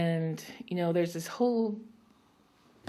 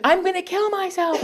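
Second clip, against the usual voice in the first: higher, louder mock-dramatic cry; melodramatic, much higher and louder; dramatic threat; 13 semitones higher, 8 dB louder than usual. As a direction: ham up the threat to jump. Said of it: "I got really dramatic".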